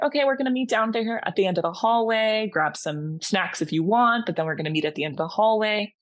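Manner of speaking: fast tour-guide orders rattled off; barking orders. Retold or imitated. Tour guide rushing guests down the hallway, fast. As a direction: herd the group along at speed. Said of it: "barking to my guests".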